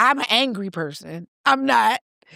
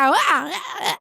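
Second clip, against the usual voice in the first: pained groans; 6 semitones higher than usual. Retold or imitated. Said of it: "And then I'm like".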